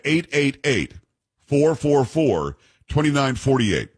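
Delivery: phone number read out slowly; slow, careful number. Real, not acted. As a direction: say each group of digits slowly, with gaps between. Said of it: "I'll say it slowly".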